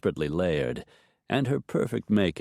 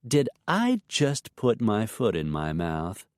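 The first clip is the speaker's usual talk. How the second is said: sing-song insincere; 3 semitones higher than usual. Acted. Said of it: "in a sing-song voice that sounded warmly insincere".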